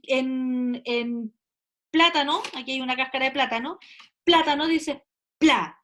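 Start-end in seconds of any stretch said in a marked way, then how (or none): 1.9-2.4 plátano with the weight on PLÁ; plátano as a PLÁ-stressed example; stress on first syllable. Shown as a demonstration. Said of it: "donde tú cargas la voz". 4.2-5.8 plátano, then PLA said on its own; plátano, pointing out its stressed pla; stressed syllable isolated. Shown as a demonstration. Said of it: "en esta sílaba".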